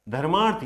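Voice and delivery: धर्मार्थ with weight on the long मा; stress on long vowel. Shown as a demonstration. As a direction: lean on मा in धर्मार्थ. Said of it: "वहीं पर ज्यादा जोर दिया जा रहा है".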